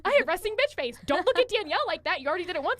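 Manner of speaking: scolding herself in a rush; nervous self-talk. Retold or imitated. Inner voice warning herself about Danielle. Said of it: "And I'm like".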